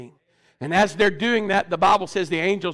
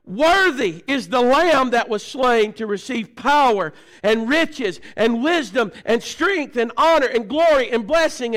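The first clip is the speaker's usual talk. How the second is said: declaimed scripture in a full preacher's voice; preaching scripture reading. Real, not acted. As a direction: proclaim each praise in a measured cadence.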